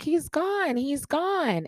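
high wailing imitation; imitating friend. Friend on the phone, high mock wail. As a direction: voice the friend's high panicked cry. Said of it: "She's like".

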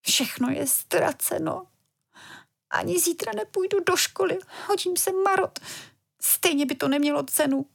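put-on high, soft little girl close to tears; a little girl giving up, holding back tears; tearful despair. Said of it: "do očí se jí tlačily slzy".

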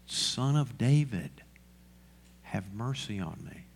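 slow, drawn-out call that drops away; half-voiced plea, stretched at the start; mild crying out. Preacher voicing blind Bartimaeus begging Jesus for mercy, restrained cry. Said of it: "and he cries out".

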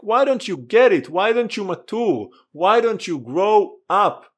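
mock frustrated apostle pleading; exasperated complaint. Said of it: "He complained about it".

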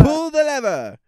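high, loud cartoon villain yell; villain shout. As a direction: bark the order like a cartoon villain. Acted Yzma quote.

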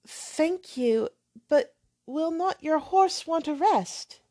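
lightly voiced hesitant girl; timid young lady. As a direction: question him gently. Catherine's timid question.

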